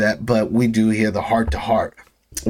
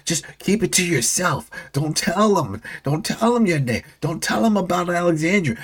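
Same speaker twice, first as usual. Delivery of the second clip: a hint of a frantic, higher brainwashed man; lightly voiced Rick pleading, half-hearted urgency; 5 semitones higher than usual. Host imitating brainwashed Rick begging Michonne, lightly higher. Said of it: "as if he was brainwashed".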